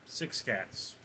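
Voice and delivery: breathy whisper to self. Real, not acted. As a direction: whisper the count. Counting cats under breath.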